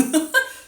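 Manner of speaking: a very high, loud burst of laughter; squeaky laugh. Real, not acted. Teacher laughing at her messy vowel chart, very high squeal of laughter.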